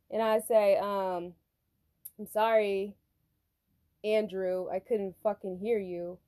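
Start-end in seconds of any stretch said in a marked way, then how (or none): 2.2-6.2 deliberate, halting apology with an edge; irritated apology. Retold or imitated. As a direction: apologize as if fed up with him. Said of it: "I didn't say it like that".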